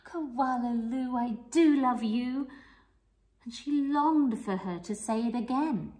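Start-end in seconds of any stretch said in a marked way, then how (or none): 0.0-2.5 remembered mother. Acted. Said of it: "had looked at her and said".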